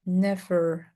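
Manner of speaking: "never" pelan, V dilebih-lebihkan; exaggerated V. Shown as a demonstration. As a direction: tekan bunyi V pada "never". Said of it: "exaggerate the V".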